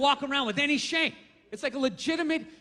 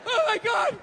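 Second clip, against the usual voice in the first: desperate wail; 9 semitones higher than usual. Retold or imitated. Dieter dreading the photo shoot, high mock wail. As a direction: wail like a starving actor.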